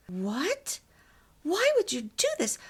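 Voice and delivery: loud, high, fast mimicked outburst; harsh, high-pitched. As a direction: imitate her incredulous demand, pitch leaping. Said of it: "high-pitched voice".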